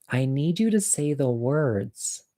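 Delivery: firm, drawn-out insistence, kept quiet; not so nice. Retold or imitated. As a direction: spell out the demand slowly and softly. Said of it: "I think I said it nicer than that".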